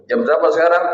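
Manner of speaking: stern father pressing the question; pointed question. Retold or imitated. Father confronting his son who came home late, stern pointed question. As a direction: ask it to make a point, not to learn. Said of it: "mau negesin".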